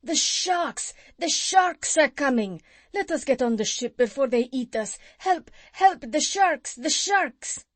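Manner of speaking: high panicked shouts for help; terrified cries. A narrator's reading. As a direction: scream in fear of the sharks. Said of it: "they all cried out in great fear".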